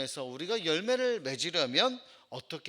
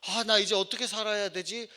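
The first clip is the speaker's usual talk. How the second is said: acted fretting, raised pitch; confused worry; 5 semitones higher, 4 dB louder than usual. Disciples left without their teacher, acted anxious confusion. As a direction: play a disciple at a loss. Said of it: "이런 혼란 가운데 있었습니다".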